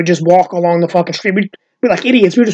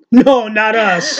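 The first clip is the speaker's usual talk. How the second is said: innocent denial; 4 semitones higher, much slower than usual. Retold or imitated. Replying to the neighbors.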